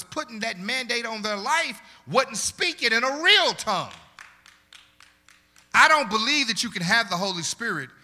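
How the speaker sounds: loud, driving sermon cadence; preaching at full force. Acted. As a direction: preach it hard to the congregation.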